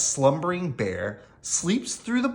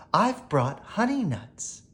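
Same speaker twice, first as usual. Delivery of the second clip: grinning badger; 6 semitones higher than usual. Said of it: "Badger says with a grin".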